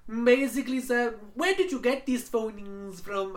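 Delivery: imitated Indian accent. Agent voiced in phone story.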